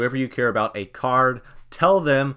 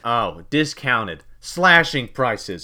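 salesman; 4 dB louder, much slower than usual. Pretend. Mock sale announcement.

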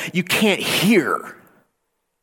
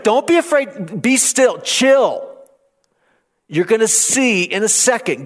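raised, high urgent plea to be still; urgent preaching; 4 semitones higher than usual. Retold or imitated. Moses urging people to be still.

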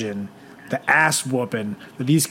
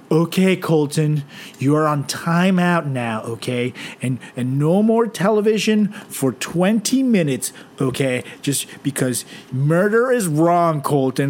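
mock gentle American parent, drawn out; 3 semitones higher than usual. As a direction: coo it like a pushover mom. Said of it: "they'll be like".

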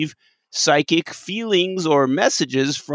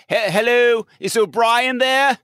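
calling out; 8 semitones higher than usual. Acted. Host pretends to hail the transporter chief, calling out. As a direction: call out as if hailing someone unseen.

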